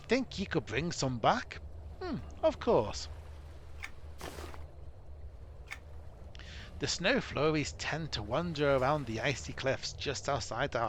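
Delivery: a gruff dwarf leader, mock accent, urgent; dwarf commander. Dwarf captain warning Gwinion of disaster, in a mock dwarf accent. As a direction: warn the hero of disaster like a worried dwarf captain.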